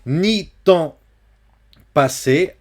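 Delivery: "passé" avec le é final bien prononcé, plus haut. Shown as a demonstration. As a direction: faire sonner le E accentué de "passé". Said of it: "attention ici à passer". ("passé" prononcé /pase/)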